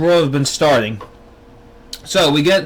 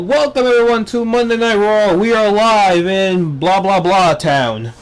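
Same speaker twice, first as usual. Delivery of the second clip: a hint of the ring announcer welcoming the crowd; Michael Cole intro. Vlogger mocking the commentator's show opening, mild announcer voice. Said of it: "first thing here is Michael Cole".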